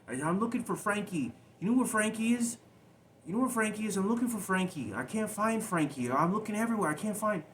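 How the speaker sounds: put-on very high, loud child calling out for his brother; frantic child. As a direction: cry out high like a scared little boy searching.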